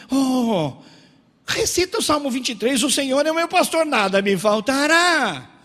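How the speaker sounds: loud, high declamatory send-off; mock pious brush-off. Church members fobbing off someone hungry, mock pious and loud.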